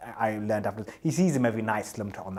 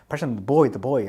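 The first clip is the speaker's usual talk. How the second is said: urgent call; 3 semitones higher, 7 dB louder than usual. Retold or imitated. Colleague urgently pointing out boy.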